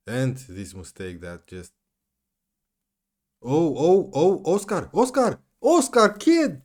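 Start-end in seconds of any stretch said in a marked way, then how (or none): 3.4-6.6 high, loud despairing cry of the player's name; anguished yell. Real, not acted. Gamer yelling at his player after a blunder, anguished yell. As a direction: howl the name as it all goes wrong. Player's mistake in late game.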